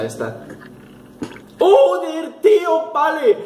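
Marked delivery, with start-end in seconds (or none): 1.6-3.4 high, loud shock in short bursts; real startled yell. Real, not acted. Player hit by a jump scare, startled high yell. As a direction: yelp the words from a sudden scare.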